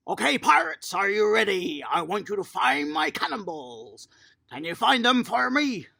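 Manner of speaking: loud, rallying call to the group. Real, not acted. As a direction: coach rallying little pirates, loud calling out. Calling to kids across hall.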